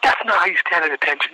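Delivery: high, exasperated military scolding; drill-instructor scolding. Retold or imitated. Sergeant correcting a candidate's stance, mock exasperation.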